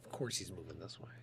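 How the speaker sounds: hushed unvoiced whisper. Real, not acted. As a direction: whisper it so he won't hear. Hiding from stag, whispering.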